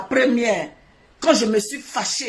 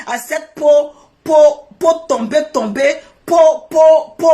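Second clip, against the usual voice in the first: angry insult; 2 semitones higher, 7 dB louder, slower than usual. Real, not acted. Insulting a rival on live.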